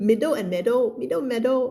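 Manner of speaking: "middle" with short i, "meadow" with e; "middle", then "meadow", vowels kept apart; minimal contrast. Shown as a demonstration. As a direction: set "middle" against "meadow". Contrasting two similar words.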